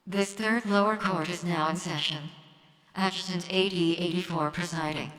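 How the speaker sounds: lightly robotic court judge; a hint of machine monotone. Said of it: "I got a robot voice".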